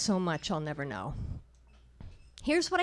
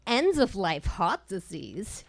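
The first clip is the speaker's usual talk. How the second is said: scoffing; slower than usual. Retold or imitated. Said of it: "she scoffed".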